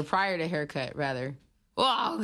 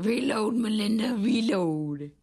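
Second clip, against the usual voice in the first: excited; 5 semitones higher, 4 dB louder, slower than usual. Pretend. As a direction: hype up the reload call. Hyping a reload moment.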